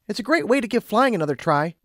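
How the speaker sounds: high-pitched character voice; Twilight, encouraging. A narrator's reading. Twilight encouraging Lumina to fly, high-pitched. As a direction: cheer her on, pitched high.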